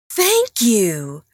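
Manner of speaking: unvoiced breathy thank you; whispering. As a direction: whisper it aside. Whispered aside.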